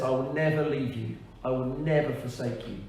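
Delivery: "never" given measured weight, falling after it; stress on never. Shown as a demonstration. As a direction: lean gently on each "never". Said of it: "There's an emphasis on that word never".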